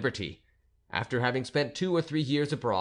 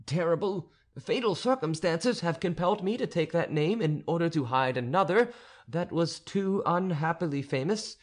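bold pleading abbé; 6 semitones higher than usual. Acted. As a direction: press your hidden secret on her. Abbé growing bolder.

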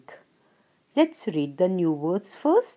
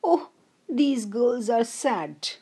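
sad sparrow; 3 semitones higher, slower than usual. Acted. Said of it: "Sparrow says".

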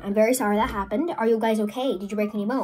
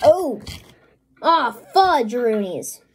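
startled; 4 dB louder, much slower than usual. Real, not acted. Sudden kitchen mishap.

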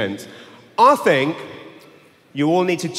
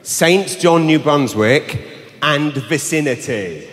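brochure read; slower than usual. Shown as a demonstration. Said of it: "Here we go".

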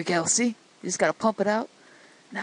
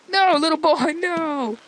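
higher, hammed-up cry of dismay; mock dismay; 6 semitones higher than usual. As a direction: call out as if losing the child. Calling out to endangered game child.

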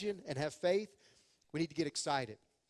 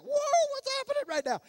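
much higher, amazed exclamation; awestruck whoa; 6 dB louder, faster than usual. Retold or imitated. Disciples seeing the transfiguration, awestruck and amazed. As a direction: gasp it out in wonder at the sight. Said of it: "They're like".

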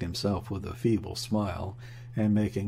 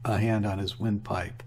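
ordinary delivery, nothing marked

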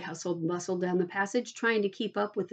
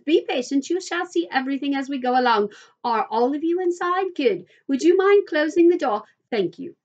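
higher, louder, briskly hosting his guests; lightly voiced Mister Wonka; 4 semitones higher, 6 dB louder than usual. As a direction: usher the children in, a touch louder.

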